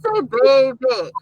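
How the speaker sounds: put-on slow, drawn-out New Orleans "baby" said as "bebe"; New Orleans accent. Shown as a demonstration. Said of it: "we have a New Orleans accent".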